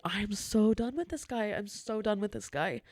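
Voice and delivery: retold exasperation, leaning on "so"; mildly hammed-up end of patience; fed up. Fed-up manager's retold thought.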